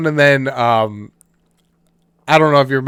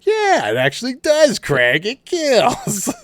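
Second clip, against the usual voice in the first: insistent retold reply; 9 semitones higher than usual. Acting out sketch character's insistent answer.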